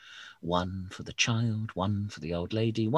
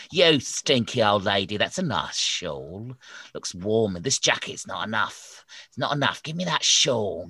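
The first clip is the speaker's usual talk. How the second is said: grumpy snowman; 4 semitones higher, 4 dB louder than usual. Acted. Snowman robbing old lady.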